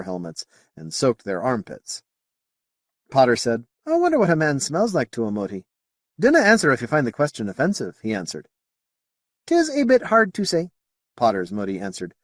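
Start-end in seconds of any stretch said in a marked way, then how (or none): 3.9-8.0 light, quick Scottish lilt, higher pitched; a touch of Scots, asking politely; Scottish accent. Acted. Potter asks a Moti about smell, light Scottish accent. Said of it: "it's the accent". 9.5-10.7 high-pitched Scottish alien voice; Scottish accent. Acted. Potter's Moti answers Potter, high Scottish accent. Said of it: "it's the accent".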